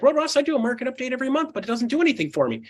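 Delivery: lightly mimicked high-pitched complainer; complaining client. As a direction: raise the pitch to imitate a griping agent. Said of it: "A lot of people are like".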